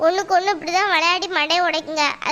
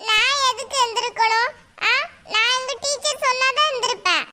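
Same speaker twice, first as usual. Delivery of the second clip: higher-pitched put-on little pupil voice; defiant child; 6 semitones higher than usual. Pupil refuses an angry mother's order, defiant child voice. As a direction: talk back like a stubborn kid.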